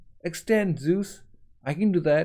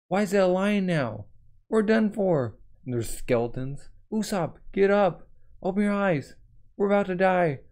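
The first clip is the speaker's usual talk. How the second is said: terrified Nami; 4 semitones higher than usual. Acted. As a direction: plead with him to get up.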